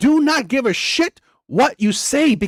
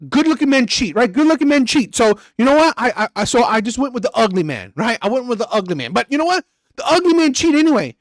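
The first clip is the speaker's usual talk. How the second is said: mock naive woman; 3 semitones higher than usual. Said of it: "It's like".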